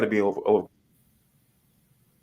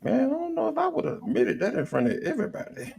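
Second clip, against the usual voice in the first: laughing disbelief. Retold or imitated. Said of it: "I was like".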